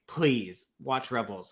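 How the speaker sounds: mild retold plea, drawn out slowly; begging. Fan retells urging casual friends to watch, mild begging. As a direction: stretch the plea out, lightly imitating begging. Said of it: "begging them".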